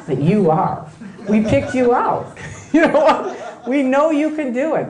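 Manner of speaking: lightly voiced cult recruiter, flattering with laughs; butter her up, half laughing. Recruiter inviting Joy to the OT levels, lightly played flattery. Role-plays recruiter to audience member.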